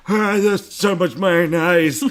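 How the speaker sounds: put-on high, loud, drawn-out teenage amazement; excited fifteen-year-old. Acting a fifteen-year-old at the wholesale place, excited teen voice. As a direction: shout it like an over-excited teen. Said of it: "That's your impression of a fifteen-year-old".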